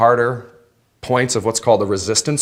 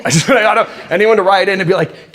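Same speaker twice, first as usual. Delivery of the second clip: laughing; 9 semitones higher, 7 dB louder than usual. Real, not acted. Laughing mid explanation.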